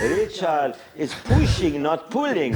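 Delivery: put-on slow, lightly Italian-accented mechanic; a hint of an Italian accent. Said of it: "in his Italian accent".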